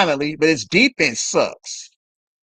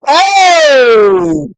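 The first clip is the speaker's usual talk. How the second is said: sudden high excited yelp; excited gasp; 11 semitones higher, 5 dB louder than usual. Real, not acted. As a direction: blurt it out as the dunk goes up. Reacts to a dunk attempt.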